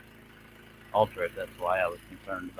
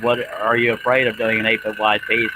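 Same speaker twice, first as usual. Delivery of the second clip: mocking quote; 6 dB louder than usual. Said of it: "when people said".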